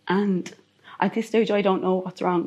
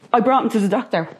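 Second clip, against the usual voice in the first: raised, louder voice for a retold protest; retold shouting; 3 semitones higher, 4 dB louder than usual. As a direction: re-enact shouting in disbelief, without a full yell. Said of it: "I'm shouting at this man".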